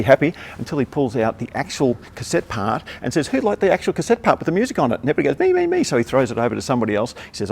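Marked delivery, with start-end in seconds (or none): 3.3-5.0 raised, playful showman call; light mock showman voice; Mike teasing. Mike teasing crowd again. 5.4-5.8 very high, eager squeal; crowd begging. Retold or imitated.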